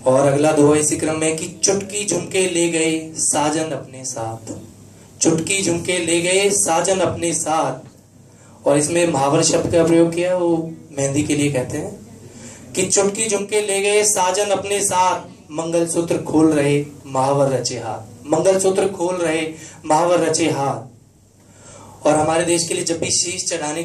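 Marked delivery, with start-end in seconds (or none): 1.6-8.7 slow, rhythmic doha delivery; measured poetic lilt; couplet recitation. Acted. 12.8-22.1 rhythmic doha delivery, words drawn out; measured poetic lilt; couplet recitation. Acted.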